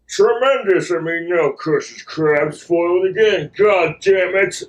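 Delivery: lightly voiced scheming cartoon villain; small-time cartoon villain voice; Plankton. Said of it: "And there's Plankton's".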